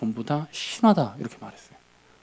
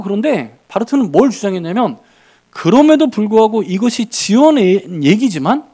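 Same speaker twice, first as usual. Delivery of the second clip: raised, louder sermon voice; impassioned preaching; 6 semitones higher, 6 dB louder than usual. Acted. Preacher insisting to the congregation, loud and fervent. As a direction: press the point home from the pulpit.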